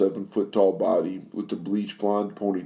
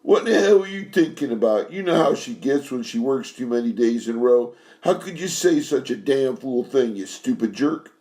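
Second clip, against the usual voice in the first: much higher, angry outburst at Frankie; furious high shout at the stupid jerk; 4 semitones higher than usual. Acted. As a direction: snap at him, pitch flying up. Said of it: "and shouted".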